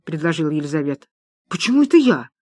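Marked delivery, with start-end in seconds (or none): 1.5-2.3 surprised protest. Acted. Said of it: "удивилась Анна".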